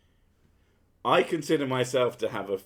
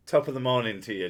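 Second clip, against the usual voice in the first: quick Irish greeting in a Scottish accent; Scottish-accented stock Irish phrase; faster than usual. Shown as a demonstration. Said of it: "In a Scottish accent".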